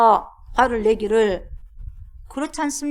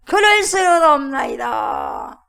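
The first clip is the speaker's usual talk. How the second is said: put-on slow, louder old-court pleading; mock courtly plea; 7 dB louder, slower than usual. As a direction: ham up a subject begging the king. (왕에게 간청하는 신하처럼 느리고 과장되게)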